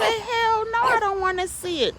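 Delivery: high, loud hell no; emphatic refusal. Retold or imitated. Refusing to look at the snake, a loud high no. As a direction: refuse loudly and fast. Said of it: "I said".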